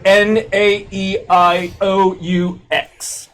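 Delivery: stretched English vowels. Retold or imitated. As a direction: spell out the vowels like a posh Brit. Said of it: "There they go".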